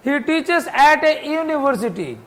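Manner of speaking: slow, deliberate example sentence; slow example reading. Shown as a demonstration. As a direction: read slowly so the class can follow. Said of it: "university क्या है?". (धीमे उदाहरण वाक्य)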